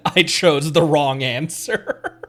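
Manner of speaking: slow and loud, laughing through it. Real, not acted. Streamer admits the wrong guess to chat, laughing. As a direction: giggle out the confession.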